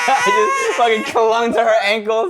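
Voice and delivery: high-pitched, laughing through the words. Real, not acted. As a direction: gasp it out while cracking up. Joining in the laughter.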